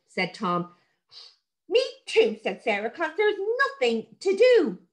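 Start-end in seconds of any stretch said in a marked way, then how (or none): 1.7-2.4 put-on high, bright little girl voice; a young girl agreeing eagerly; child Sarah. Girl agreeing with her brother, higher voiced. 2.9-4.8 put-on higher, slow bored little girl; whiny child. Sarah complaining, bored.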